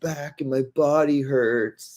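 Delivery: mocking a streamer faking pain, high and whiny; hammed-up groan. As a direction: whine like a faker on a treadmill. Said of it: "he just goes".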